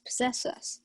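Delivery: hushed, eager whisper of a plotter; conspiratorial whisper. Acted. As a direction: lean in and whisper it urgently. Toby eager to hear the plot.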